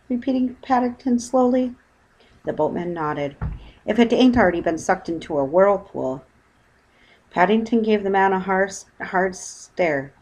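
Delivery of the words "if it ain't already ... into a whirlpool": boatman's voice. Acted. Boatman speaks.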